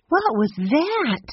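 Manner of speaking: put-on a girl spooked by an eerie cry; startled. A narrator's reading. Girl spooked by a strange call, slow and uneasy. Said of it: "Jessie got goosebumps".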